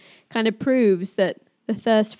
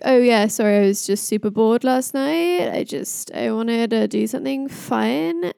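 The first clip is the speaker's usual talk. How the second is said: Loki. Acted. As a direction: play a casual, unbothered trickster. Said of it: "Oh, my accent's gone".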